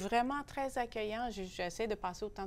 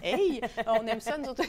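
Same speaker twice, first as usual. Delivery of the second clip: put-on French accent; 2 semitones higher, 9 dB louder than usual. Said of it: "avec un accent français".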